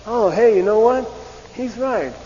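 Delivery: mock sudden realization. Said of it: "he'll say".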